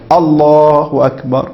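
very slow الله أكبر held until the hands reach the top; correct takbir. Shown as a demonstration. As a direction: stretch الله أكبر slowly, then stop. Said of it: "من حين الرفع وتنتهي". (تكبير صحيح بطيء جدا)

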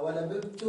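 ولببت said cleanly after stumbling, rising at the end; corrected word. Shown as a demonstration. Teacher correcting himself on ولببت, said clearly. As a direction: say ولببت clearly, fixing the slip. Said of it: "ولب-، ولب-، آه".

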